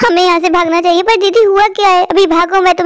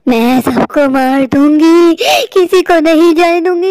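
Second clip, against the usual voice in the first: witch voice; slower than usual. Retold or imitated. Reema recalls witch's threat.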